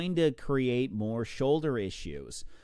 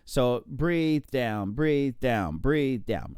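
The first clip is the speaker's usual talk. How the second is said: slow stroke count; much slower than usual. Shown as a demonstration. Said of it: "so I breathe to my right".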